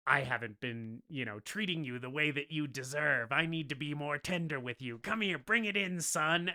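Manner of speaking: mildly put-on fatherly tone; fatherly goblin. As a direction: play a villain being gently fatherly. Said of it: "fatherly to Harry, right? In full goblin mode".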